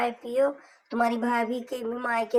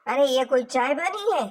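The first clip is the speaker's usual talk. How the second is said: indignant complaint; 5 dB louder than usual. Acted. Sister complains about the tea.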